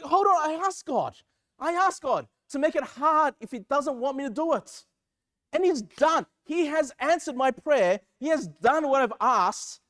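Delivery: worked-up retelling of a grievance; frustrated. Retold or imitated. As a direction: argue your case, acting out frustration. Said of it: "I'm, like, getting frustrated".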